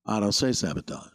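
stubborn star actor impression; measured, falling refusal to the engineer; William Shatner. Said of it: "that's my shot".

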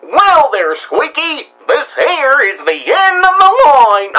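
Pete voice, not menacing. Acted. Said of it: "Can we try it menacing".

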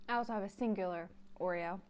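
talking with sticky mouth; mouth full. Real, not acted. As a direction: talk through sticky food. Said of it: "stuck to the roof of my mouth".

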